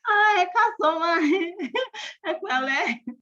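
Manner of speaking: high, bright put-on politeness in Yoruba; forced polite greeting. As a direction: smile through a greeting you don't mean. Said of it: "you have to smile".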